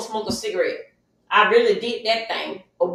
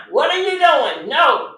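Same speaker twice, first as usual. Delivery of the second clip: loud, higher appalled cry; outraged objection; 3 semitones higher, 6 dB louder, slower than usual. Retold or imitated. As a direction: stop him cold with your voice. Woman objecting to being hurt.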